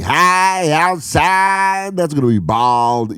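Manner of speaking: mock baseball announcer. Mimicking a baseball broadcaster to a friend. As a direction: ham up a ballpark call. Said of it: "Or baseball, where they're like".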